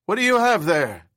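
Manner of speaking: put-on high, loud, screeching old man; shrill up top like an aging bird. A narrator's reading. Old boss squawking at his employee in a high screech. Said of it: "only his bird screech voice".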